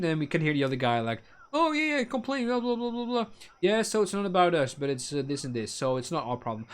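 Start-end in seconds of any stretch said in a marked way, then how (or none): 1.5-6.7 offhand coworker. Retold or imitated. Coworker on phone dismissing it.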